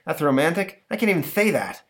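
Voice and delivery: lightly high monster voice; grand storytelling monster; prissy monster. Retold or imitated. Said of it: "monster telling its story".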